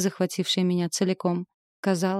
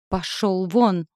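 slow shout; 3 dB louder, much slower than usual. Acted. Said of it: "заорала я".

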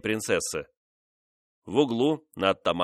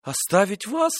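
much higher, stunned disbelieving cry; 11 semitones higher, 3 dB louder than usual. Acted. Mistress told to leave the king, high shocked cry. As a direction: gasp out the question in shock. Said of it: "крикнула она".

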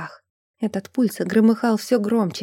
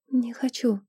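faint breathy exhale of words; barely audible; 2 semitones higher, 6 dB quieter than usual. Acted. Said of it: "выдохнула она едва слышно".

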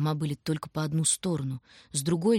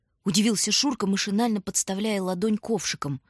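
ordinary delivery

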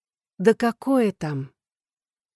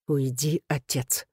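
low, softer, teeth-gritted warning; through clenched teeth; 4 semitones lower, 5 dB quieter, slower than usual. A narrator's reading. Son ordering his father out, through clenched teeth. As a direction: hold the rage back behind the teeth. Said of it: "стиснув зубы".

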